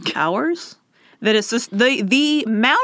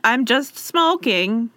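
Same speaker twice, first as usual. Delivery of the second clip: slow feigned innocence, rising at the end; mock casual echo; slower than usual. Echoing the caught man's excuse, mock-casual. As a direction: stretch it out with an upward lilt.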